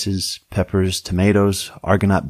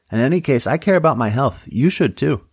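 higher-pitched, earnest lecturing voice; earnest deputy character; 6 semitones higher than usual. Acted. Deputy lectures the sheriff on health, earnest and high.

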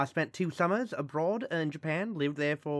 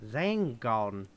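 put-on slow New Zealand accent, lower; 5 semitones lower, much slower than usual. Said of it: "nice and slowly in a New Zealand accent".

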